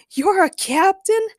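high, loud, drawn-out question; mock laughing disbelief. A narrator's reading. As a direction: scoff with slow, rising incredulity. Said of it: "Ray laughed".

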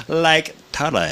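put-on West Coast slang accent. Host joking about being on the West Coast, West Coast accent. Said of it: "'cause I'm on the West Coast".

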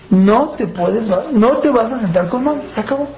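steady, direct father ending the matter; firm but unhurried, never raise the voice; calm firm command. Shown as a demonstration. Father tells child the seat is off limits, calm and firm. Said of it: "Tranquilo, sin gritar, directo, fuerte y firme".

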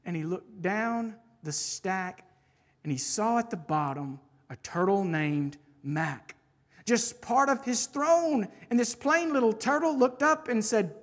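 animated rhyming story narration; bouncy picture-book storyteller; story reading. Acted. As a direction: read it to children with a lilting, swinging rhythm. Reads a rhyming children's book aloud.

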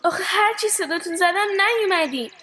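mildly tearful complaint; crying. Acted. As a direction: explain through a touch of tears.

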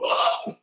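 short mock panicked "ah"; freak-out yell. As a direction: act out a choked freak-out cry. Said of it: "And you freak out".

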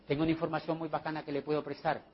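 fast, low, hushed aside; confidential offer. Acted. Recruiter privately lending information to a guest, hushed and confidential. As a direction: murmur the offer privately and quickly. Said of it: "no le hablo enfrente de los demás".

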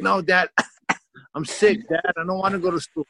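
high, whiny fake-sick kid voice; pleading like a kid who fakes being ill. Kid begging dad to stay home, whiny. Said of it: "I faked being sick".

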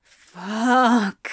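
drawn-out groan on the word; mild, voiced groan of a swear word; groaned curse. A narrator's reading. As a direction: groan it out, struggling for self-control. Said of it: "Crowley groaned".

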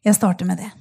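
normal talking voice

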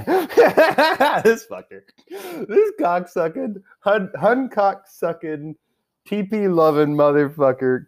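high-pitched laughing insults, slowed right down; laughing rant. Real, not acted. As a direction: cackle the insults out as you laugh.

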